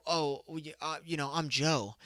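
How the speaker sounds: soft, bashful self-introduction; modest mumble. Retold or imitated. Short guy telling the girl his name, soft and bashful. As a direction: play it shy and humble. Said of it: "you're like".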